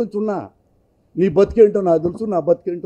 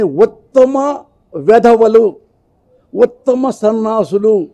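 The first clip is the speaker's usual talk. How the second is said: slow, louder mock proclamation; sarcastic award titles; 3 semitones higher, 5 dB louder, much slower than usual. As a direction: proclaim the insults like prizes. Mock insult awards proposed.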